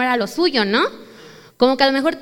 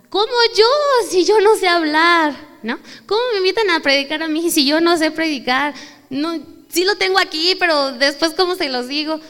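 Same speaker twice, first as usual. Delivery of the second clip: higher and louder, an anxious protest; pleading Moses; 4 semitones higher, 4 dB louder than usual. Retold or imitated. Moses protesting to God that he can't speak, anxious plea. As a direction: beg to be let off the job. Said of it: "Y le dijo a Dios".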